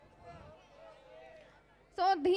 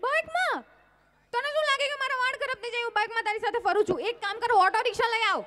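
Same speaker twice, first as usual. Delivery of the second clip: put-on scoffing girlfriend; 3 semitones higher than usual.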